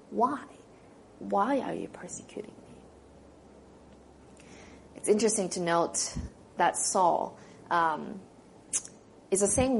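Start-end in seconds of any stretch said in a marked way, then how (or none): 0.1-4.4 slow whispered why; gentle piercing question. Acted. Jesus asking Saul his piercing question, slow whisper. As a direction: breathe the question slowly. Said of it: "gentle and yet penetrating, piercing question".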